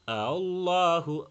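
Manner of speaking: slow recited "আল্লাহু" with the opening hamza eased; "আল্লাহু" drawn long, hamza light; softened hamza. Shown as a demonstration. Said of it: "আল্লাহু শক্ত করা যাবে না".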